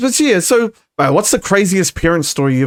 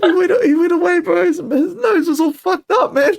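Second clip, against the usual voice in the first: laughing while telling; 12 semitones higher than usual. Real, not acted. Laughing through funny story.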